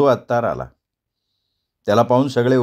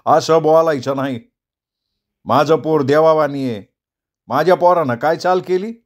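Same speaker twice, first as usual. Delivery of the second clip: raised, fired-up defence of his son; heated loud retort; 4 semitones higher than usual. Acted. Savla loudly defends his son against Daulati's insult, heated. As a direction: storm forward and defend the boy hotly. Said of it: "तावातावानं पुढं सरसावला आणि मोठ्यांदा म्हणाला".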